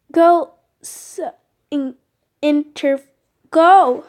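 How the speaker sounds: panicked shout. Acted. Panicked commands mid attack.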